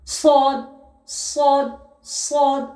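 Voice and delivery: সদ with lips squared and a puff of air; careful letter drill; Arabic letter demo. Shown as a demonstration. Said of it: "সদ উচ্চারণ হয়".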